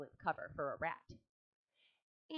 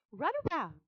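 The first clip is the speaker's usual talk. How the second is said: higher, louder order; commanding; 8 semitones higher, 4 dB louder than usual. A narrator's reading. Charlotte ordering Wilbur, high command. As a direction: give the command. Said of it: "commanded Charlotte".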